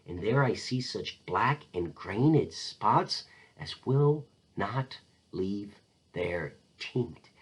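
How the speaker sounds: slow, sinking to a breathed near-whisper; breaking down. Acted. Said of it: "the queen breaks down".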